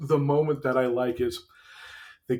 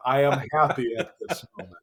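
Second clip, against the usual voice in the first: laughing; 3 semitones lower, faster than usual. Real, not acted. Laughing joy at the scene.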